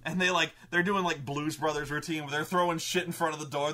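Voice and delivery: ordinary talk, nothing marked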